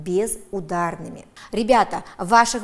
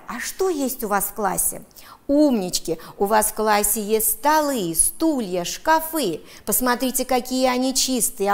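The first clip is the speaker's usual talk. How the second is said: normal talking voice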